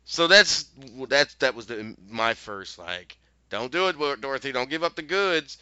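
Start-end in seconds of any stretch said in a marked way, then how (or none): 3.5-5.6 growing into a mild mock yell at the screen; urgent warning, rising a little louder. Viewer warning Dorothy through the TV, mild mock yell. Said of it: "I'm sitting there yelling at the T V".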